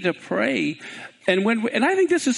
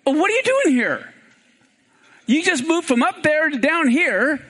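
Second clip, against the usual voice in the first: voice of God; 6 semitones higher than usual. Acted. The voice at the cave mouth questioning Elijah, raised. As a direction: call out the question with gentle mockery. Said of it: "a voice comes to him and says".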